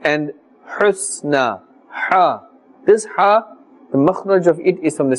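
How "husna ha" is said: husna with a tight "ha" from the middle of the throat; thin ha from throat. Shown as a demonstration. Teacher contrasts two letters, thin mid-throat ha. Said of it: "It has a very thin sound".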